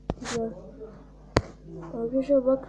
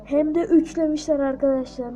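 dismayed no; 5 dB louder than usual. Real, not acted. His own village was beaten.

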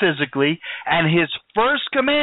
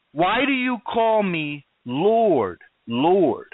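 "Lord, Lord" drawn out slowly, each one stressed; slow down and lean on each "Lord"; double emphasis on LORD; much slower than usual. Acted. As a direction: repeat "Lord" as its own weighty, separate beat. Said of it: "He puts a double emphasis on it".

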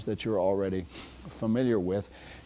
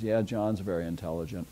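deadpan irony; 3 semitones lower, 4 dB quieter than usual. Shown as a demonstration. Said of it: "in perfectly ordinary tones".

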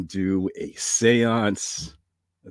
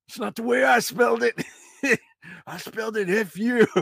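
put-on old grandpa voice; 10 semitones higher than usual. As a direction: bark like a grumpy grandpa. Grandpa ghost voice.

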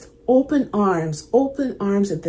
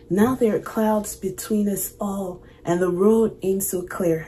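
choking up while reading. Real, not acted. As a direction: voice choked with emotion. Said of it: "I'm sorry, I'm choking up".

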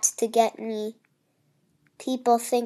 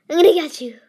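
playful threat; 3 semitones higher, 5 dB louder, much faster than usual. Real, not acted. Chasing another player, repeated.

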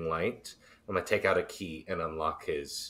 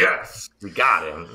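excited cheer; 10 dB louder than usual. Real, not acted. Player cheers game ending.

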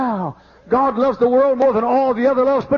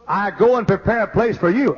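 heartfelt, wondering reading; felt from the heart. Shown as a demonstration. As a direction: let the promise land in your heart. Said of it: "think that in your heart like this".

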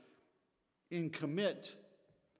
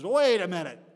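loud sudden halt, a touch higher; sudden alarm; 4 semitones higher, 12 dB louder than usual. Acted. Pig realizing the bacon costs him, loud startled halt. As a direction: stop everything as the catch dawns. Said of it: "all of a sudden he says".

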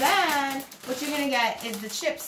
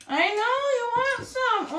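pet talk; 11 semitones higher than usual. Real, not acted. Talking to the begging cat.

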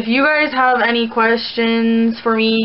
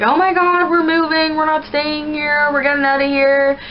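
higher-pitched mock-panicked mom; retold motherly fretting, higher voice; imitating alarmed mom; 5 semitones higher than usual. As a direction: mimic an insistent mother, pitched up. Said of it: "my mom was like".

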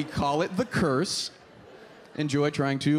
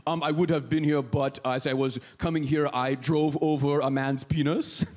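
put-on apologetic foreign coworker accent; Hannah. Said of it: "Hannah could show up late".

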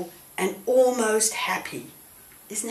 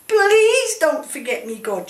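pleading prayer, much higher and louder; begging God; 7 semitones higher, 7 dB louder than usual. Acted. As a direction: beg God with everything you have. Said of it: "she begged".

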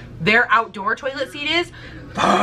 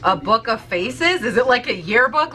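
puzzled Alaskan. Retold or imitated. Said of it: "And they were like".

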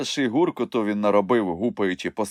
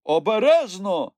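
higher urgent shout; warning cry; 11 semitones higher, 4 dB louder than usual. A narrator's reading. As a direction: warn him before he falls. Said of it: "скрикнув Нюхмумрик". (тривожний окрик)

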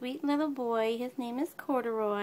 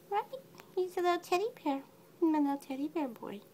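light high cooing; 5 semitones higher than usual. Real, not acted. Owner cooing to her teddy-bear kitten in baby talk. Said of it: "You make me talk baby talk".

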